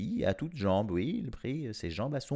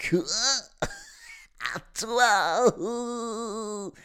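high, louder shocked cry; shocked exclamation; 13 semitones higher, 4 dB louder, much slower than usual. A narrator's reading. Family stunned the youngest will go, shocked. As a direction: gasp it out in disbelief. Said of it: "s'exclamèrent ses frères et sa mère".

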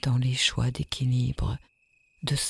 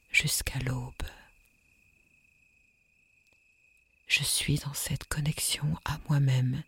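soft echoing dream voice. Acted. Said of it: "qui devient juste un chuchotement".

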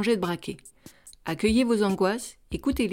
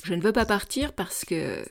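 reluctant stay-at-home. Pretend. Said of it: "mettez-vous dans la peau de celui ou celle qui ne veut pas partir".

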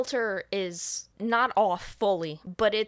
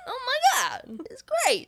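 Stallone voice; 14 semitones higher than usual. Retold or imitated. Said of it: "Now it's turning into Sylvester Stallone".

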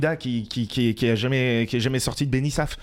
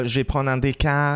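playful attempt at Parisian French; Parisian accent. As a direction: put on a light Parisian intonation. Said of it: "tu commandes un café comme ça".

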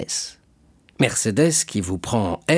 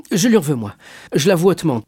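emphatic avowal; 8 semitones higher, 6 dB louder, faster than usual. Acted. Fernand admits his grudge to Danglars.

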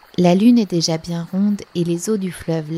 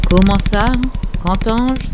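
loud, booming tree voice; indignant great tree; 4 semitones higher, 7 dB louder than usual. A narrator's reading. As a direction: thunder the questions as an outraged giant. Great tree booms indignantly at animals. (grand arbre indigné, voix forte)

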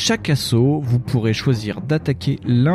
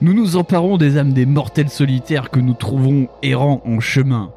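raspy sepulchral voice. Acted. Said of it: "D'une voix rauque et sépulcrale".

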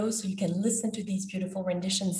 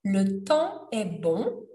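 "le temps est bon" recited slowly, line by line; slow lyric reading; slower than usual. Shown as a demonstration. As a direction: read the chorus slowly and clearly for learners.

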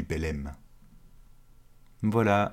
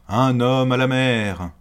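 loud urgent repeated shout; bellowing over the wind; 4 semitones higher, 7 dB louder than usual. Acted. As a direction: call again over the storm. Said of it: "la voix du capitaine qui résonne".

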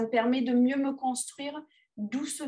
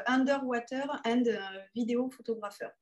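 English accent. Shown as a demonstration. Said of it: "avec mon super accent anglais".

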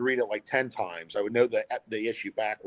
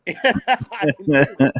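slow, laughing admission; 6 semitones higher, 9 dB louder, much slower than usual. Real, not acted. Admitting to the host he never called, laughing. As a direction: laugh through the confession. Laughing at his own timidity.

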